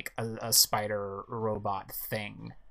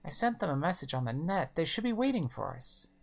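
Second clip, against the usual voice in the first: fretting mother; 6 semitones higher than usual. Acted. Mother voiced in the story.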